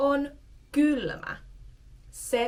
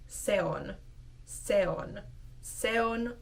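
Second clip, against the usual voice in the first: molded together. Shown as a demonstration. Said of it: "mold together".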